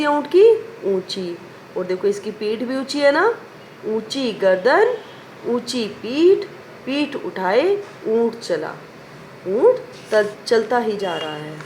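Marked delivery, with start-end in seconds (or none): 3.9-8.7 put-on slow, sing-song rhyme recital for children; slow poem recital. Shown as a demonstration. Teacher slowly reciting a poem to her class. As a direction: chant each line slowly, rising at the commas.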